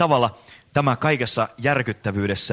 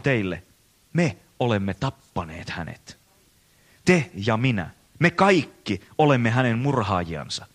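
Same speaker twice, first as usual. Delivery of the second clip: earnest reading of a parable aloud; dramatic story reading; 2 semitones higher than usual. Acted. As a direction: read it like a dark tale to a congregation. Reads Nietzsche's madman story aloud.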